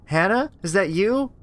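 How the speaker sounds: high, slowing to a stunned whisper-like fade; shocked disbelief. Acted. Rachel answering her sister's voice, shocked. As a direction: she can't accept it's her sister.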